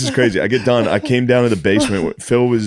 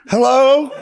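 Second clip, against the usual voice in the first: put-on high, loud frail old woman calling; old lady calling; 4 dB louder than usual. Grandma stuck behind a bush calling for help. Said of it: "she was like".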